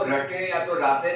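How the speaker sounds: रटे as ra-te, राते as raa-te; mispronounced silent e. Shown as a demonstration. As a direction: sound the final e in both रटे and राते. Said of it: "नहीं बोलेंगे".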